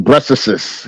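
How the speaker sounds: "breastises" slowly, with an extra syllable on the end; mock misspelled word. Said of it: "He said breastises".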